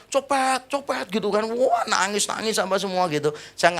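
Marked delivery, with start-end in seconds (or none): 0.1-1.1 high-pitched mock cry of alarm; imitated shouting. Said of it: "tiba-tiba beberapa langsung teriak". (menirukan teriakan)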